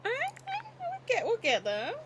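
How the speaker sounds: hiccupping while talking; words broken by hiccups. Real, not acted. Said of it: "Oh, I have the hiccups".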